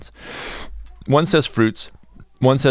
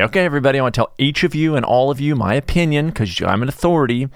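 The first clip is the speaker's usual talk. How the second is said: mock pompous announcement; 5 semitones higher, faster than usual. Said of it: "I was joking".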